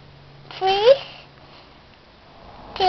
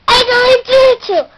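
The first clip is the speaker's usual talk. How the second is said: troll voice; 5 semitones higher, 4 dB louder, much faster than usual. Acted. Troll threatens goat.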